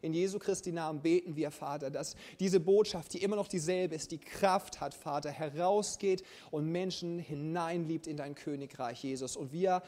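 inbrünstig gesprochenes Gebet. Acted. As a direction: bete vor der Gemeinde. Leads closing prayer for congregation. (inbrünstiges Gemeindegebet)

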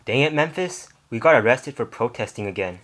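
loud, fed-up complaint; frustrated outburst. Acted. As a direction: vent the frustration. Frustrated after another arrest.

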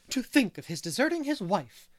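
scandalized gossip, pitch and volume up; indignant. A narrator's reading. Mrs Lynde to Anne and Marilla, indignant and loud. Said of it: "she said indignantly".

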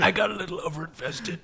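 mock sheepish. Self reply, mock sheepish.

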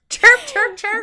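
high, loud bird chirping. Shown as a demonstration. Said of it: "That's a bird noise".

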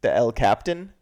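"Captain" as the English word, questioning rise; mock wrong pronunciation. Shown as a demonstration. Co-host guessing how to pronounce it, anglicized. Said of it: "How do you pronounce it".

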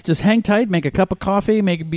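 high, slowed-down call to listeners; chirpy put-on host addressing the audience; mock host announcement. Host telling listeners of a reboot, mock announcement.

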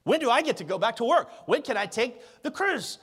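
rising, mock-whiny pleas; half-hearted whiny questions; whiny complainer. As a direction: sound like a fretting churchgoer. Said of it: "the only question you can come up with is".

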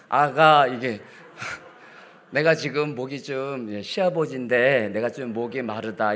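slow, gentle asking with a laugh; loving request. Shown as a demonstration. Father-in-law gently asking daughter-in-law for water. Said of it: "사랑으로 이렇게 간청을 하고 싶더라고요".

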